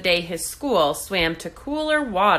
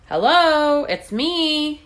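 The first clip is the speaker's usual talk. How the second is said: high, loud hopeful call; 8 semitones higher, 5 dB louder, slower than usual. A narrator's reading. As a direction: call ahead to a friend. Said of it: "he called".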